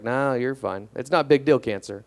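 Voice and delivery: imitating a breezy, unbothered doctor; nonchalant. Doctor waving off her patient's skin cancer worry, retold as nonchalant. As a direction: brush it off casually, as the doctor did. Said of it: "My doctor was so nonchalant".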